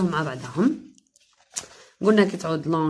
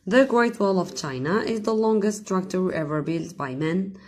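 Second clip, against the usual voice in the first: slow example sentence, every word spaced; slow dictation; 2 semitones higher, much slower than usual. Shown as a demonstration. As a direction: read it slowly so students can write. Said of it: "teacher reads example slowly". (قراءة بطيئة للمثال)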